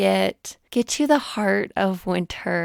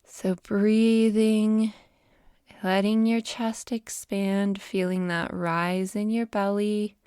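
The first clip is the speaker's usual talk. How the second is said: measured breathing cues, phrase by phrase; guided meditation. Acted. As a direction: ease the listener gently into the breath.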